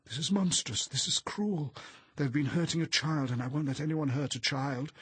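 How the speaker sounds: high, loud indignant outburst; impassioned outrage; outraged protest. A narrator's reading. Horrified inner outburst against cruelty.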